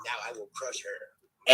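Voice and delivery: low, slow, loud monster threat; dinosaur voice. Retold or imitated. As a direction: rumble it out like a dinosaur. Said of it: "and he's like".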